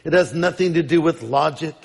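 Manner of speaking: lightly put-on British scorpion; measured mock British accent. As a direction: explain it with a hint of British accent. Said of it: "he would have a British accent".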